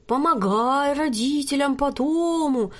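slow, composed pronouncement; unruffled. A narrator's reading. Fortune teller calmly continuing her act, slow and composed. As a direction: keep going calmly, deadpan. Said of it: "невозмутимо продолжала Милада".

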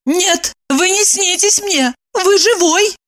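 high, slow, amazed; the truth dawns on her; sudden realization. A narrator's reading. Evdokia realizes the stranger is real, amazed. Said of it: "вдруг прозрела".

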